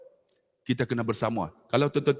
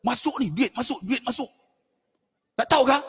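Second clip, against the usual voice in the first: gleeful mock cheer; 9 semitones higher than usual. Mimicking himself on TikTok.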